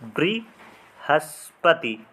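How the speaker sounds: बृहस्पति stretched very slowly, each syllable separate; very slow demo. Shown as a demonstration. Teacher spelling aloud for students, very slow and careful. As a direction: draw out बृहस्पति slowly, as if writing it. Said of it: "किस प्रकार से लिखा जाता है?".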